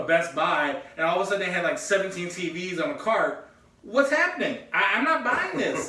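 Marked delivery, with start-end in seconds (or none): 3.8-5.9 higher and louder, acting baffled; mock disbelief. Telling a friend about the store, mock baffled. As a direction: play up the confusion at the shop.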